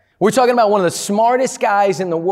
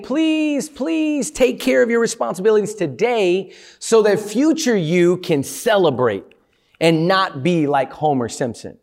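pleading. Retold or imitated. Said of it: "Future you is pleading its case".

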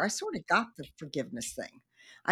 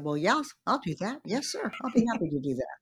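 mock eager compliance; 3 semitones higher, faster than usual. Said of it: "stood up and said".

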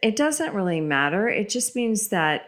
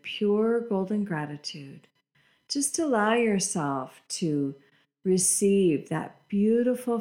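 guided meditation. Acted. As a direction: lead them gently into breathing. Leads a guided breathing meditation.

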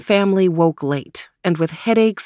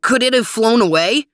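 alarmed question; 5 semitones higher than usual. Acted. Max alarmed.

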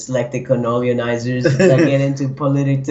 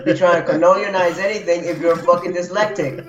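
laughing; 3 semitones higher than usual. Real, not acted. Laughing through rant.

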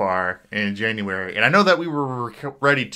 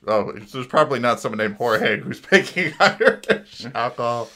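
amused laughing. Real, not acted. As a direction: laugh breaking into the words. Amused by his own mistake.

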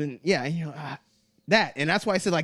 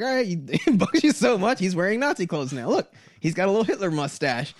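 mock taunting; 4 semitones higher than usual. Mocking trolls taunting offended people.

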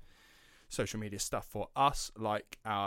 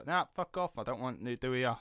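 dismissive; 2 semitones higher, 3 dB louder than usual. Retold or imitated. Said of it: "you could just say".

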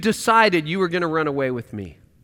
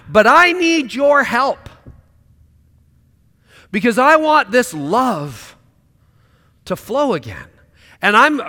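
heartfelt prayer. Pretend. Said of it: "surrender that to God and say".

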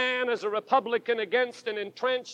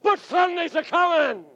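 shouted; 5 semitones higher than usual. Retold or imitated.

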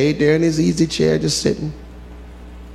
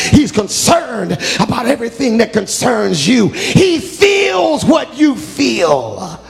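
building sermon; 2 semitones higher, slower than usual. Real, not acted. Preacher assuring the church, rising to a shout. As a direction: lift the congregation into assurance.

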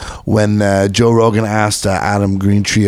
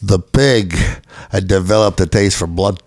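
bad Australian accent; 2 semitones lower than usual. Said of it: "that was like a bastardized Welsh accent".

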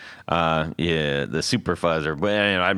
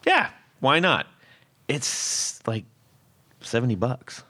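casual shrug; 4 semitones higher than usual. Retold or imitated. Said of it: "So I was like".

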